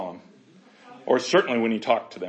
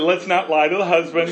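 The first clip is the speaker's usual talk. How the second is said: joking through laughter; 4 semitones higher, 5 dB louder than usual. Retold or imitated. Jokey paraphrase, laughing.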